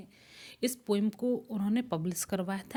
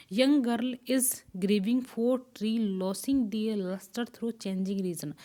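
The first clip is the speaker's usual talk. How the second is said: slow recitation; 4 dB louder, much slower than usual. Shown as a demonstration. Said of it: "spring rhythm ही इसी का ना".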